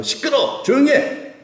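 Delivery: sudden high-pitched mock yell; high, sharp acted rebuke; acted scolding. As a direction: snap into an angry crowd hushing someone. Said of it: "이 바디메오를 무시하고".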